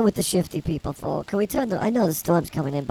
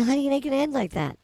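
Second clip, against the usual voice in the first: knowing; 7 semitones higher, faster than usual. Retold or imitated. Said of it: "And I'm thinking".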